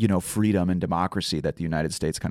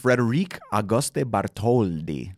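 slow, put-on Italian accent; slower than usual. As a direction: say the name in a hammy Italian accent. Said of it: "I just did the Italian accent".

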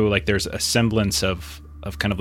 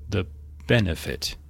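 muffled voice; 4 dB quieter than usual. Acted. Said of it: "muffled voice".

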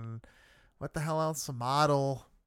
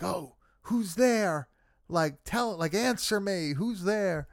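higher, drawn-out mock call; mock yelling; 5 semitones higher, slower than usual. Podcaster retelling Emily demanding an answer, half-hearted mock yell. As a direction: imitate someone calling out, without full volume. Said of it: "Emily starts yelling that".

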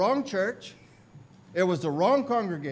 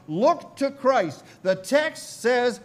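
high, slow, loud exhortation; imitated preacher's forceful command; impassioned preacher; 4 semitones higher, 5 dB louder, slower than usual. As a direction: proclaim it word by word from the pulpit. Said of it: "He went on".

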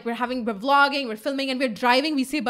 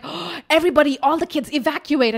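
mock alarm; 4 semitones higher, 4 dB louder than usual. Acting out kid warning the others.

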